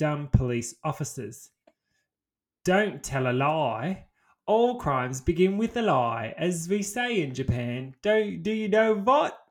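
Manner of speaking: odd, slow put-on British accent. In an improvised bit addressing police officers: British accent. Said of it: "And now they're British".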